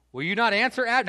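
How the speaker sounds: high, loud shouted challenge; taunting shout to an army; calling out. Acted. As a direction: call across a great distance. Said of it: "David called to the army".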